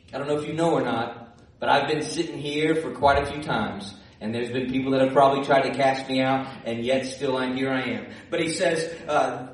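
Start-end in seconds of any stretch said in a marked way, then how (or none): 0.1-8.1 lightly voiced devil, pitched low; devil's sly taunt. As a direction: talk low and matter-of-fact, toying with Jesus. Preacher voices the devil taunting Jesus.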